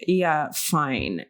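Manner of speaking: low, grudging "yeah, fine"; imitating annoyed staff. Barista annoyed at a customer's order, imitated annoyed tone. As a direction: act out an irritated, reluctant server. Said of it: "annoyed with you".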